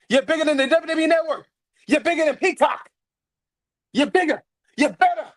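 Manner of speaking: stack the praise, climbing; building hype. Real, not acted. Cheering on his wrestler, climbing in pitch with each claim.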